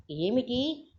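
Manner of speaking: high startled ఏమిటి; a father startled by the news; surprised. Acted. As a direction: jolt upright in surprise. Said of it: "ఆశ్చర్యంగా".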